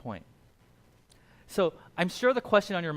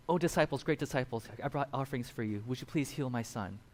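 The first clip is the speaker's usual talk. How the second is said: pleading worshipper; 3 semitones lower, 3 dB quieter than usual. Acted. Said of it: "as if the disciples were God".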